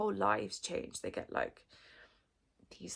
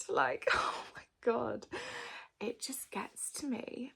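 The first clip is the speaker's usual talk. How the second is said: choked up; 3 semitones higher than usual. Real, not acted. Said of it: "I'm getting emotional".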